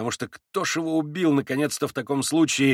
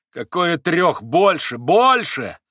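louder and higher with each больше; flaring up; 5 semitones higher, 6 dB louder, much slower than usual. A narrator's reading. Mitya correcting the sum of money, heated outburst. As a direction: flare up and push the number higher. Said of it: "вскинулся Митя".

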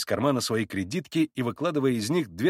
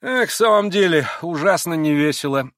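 higher, listless complaint; lazy mumbling; 6 semitones higher, 6 dB louder than usual. A narrator's reading. Kolganov agrees the party is dull, lazily complaining. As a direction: moan it idly. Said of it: "лениво промямлил Колганов".

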